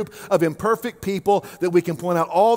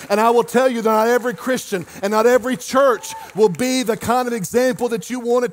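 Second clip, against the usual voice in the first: driving sermon that builds to a held-out climax; impassioned preaching; 2 semitones higher than usual. Real, not acted. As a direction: preach it with mounting force. Preaches at rising force.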